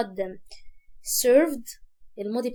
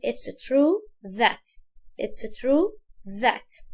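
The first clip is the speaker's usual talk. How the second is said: slow model; much slower than usual. Shown as a demonstration.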